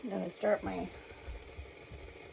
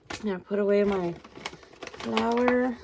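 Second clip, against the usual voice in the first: out of breath; 4 dB louder than usual. Real, not acted. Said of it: "Sorry, I'm a little out of breath".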